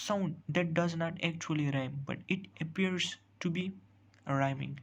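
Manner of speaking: slow, deliberate reading of a definition; teacher dictating a definition slowly. Shown as a demonstration. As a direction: spell the rule out word by word, very slowly. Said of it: "reads definition out slowly".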